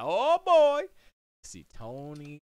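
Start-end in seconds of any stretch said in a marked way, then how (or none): 0.0-0.8 put-on high, loud delighted "oh boy"; Grimace exclaiming. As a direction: burst out, much higher and louder. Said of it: "Grimace comes in, like".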